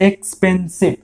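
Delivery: এক্সপেন্সিভ broken into three separate beats; এক্সপেন্সিভ split up to count its syllables. Shown as a demonstration. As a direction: say এক্সপেন্সিভ in three parts, ex-pen-sive. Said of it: "তিনবারে বলছো".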